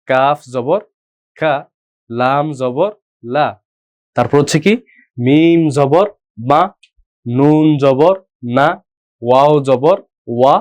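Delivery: slow, chanted recitation of each letter with its vowel; slow letter drill. Shown as a demonstration. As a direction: say every letter clearly and slowly for learners to repeat. Teacher drills Arabic letters aloud.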